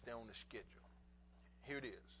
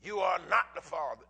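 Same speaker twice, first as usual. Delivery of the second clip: talk show verdict; 12 dB louder than usual. Retold or imitated. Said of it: "They pay them people".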